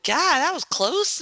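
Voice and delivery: slow, high gasp of relief; startled relief. Real, not acted. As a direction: react to a near miss. Near miss on screen.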